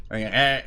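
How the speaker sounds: a short, tight choked "eh"; choked sound. Shown as a demonstration. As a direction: squeeze the throat shut on a brief "eh". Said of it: "like a little choked out sound".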